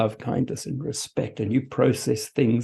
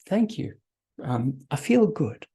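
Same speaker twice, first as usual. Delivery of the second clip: gracious self-acceptance; 3 semitones higher than usual. Acted. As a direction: take the compliment like your own best friend, voice lifted. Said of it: "you're gonna respond and say".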